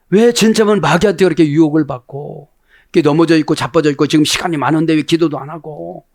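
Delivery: brisk mock scolding; acted self-rebuke. Preacher acting out scolding oneself at the mirror, mildly reproachful. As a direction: rattle off reproaches as if to yourself. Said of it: "이렇게 책망을 받게, 본인이 책망해".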